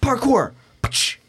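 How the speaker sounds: high, slow mock shout of parkour; mimicking Chef shooting. Retelling a coworker's antics, high slow mock shout. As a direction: ham up a coworker's silly war cry. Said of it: "shooting and going".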